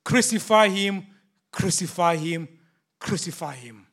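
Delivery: loud chant, fading on the last; the mob shouting down Pilate, then fading. Acted. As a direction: voice the crowd's demand, dying away. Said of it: "And they shouted".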